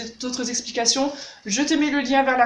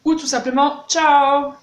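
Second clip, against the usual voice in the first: cheery goodbye demo; 3 semitones higher, 4 dB louder, much slower than usual. Shown as a demonstration. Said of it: "tu sors, tu dis".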